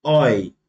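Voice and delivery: lone "oi" sound. Shown as a demonstration. Teacher recapping the rule, isolated "oi". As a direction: say "oi" as the German EU diphthong. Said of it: "E U vai ter som de oi".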